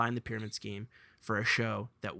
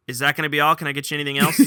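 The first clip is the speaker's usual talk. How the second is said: drive-thru worker; 9 dB louder, much faster than usual. Retold or imitated. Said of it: "I hear".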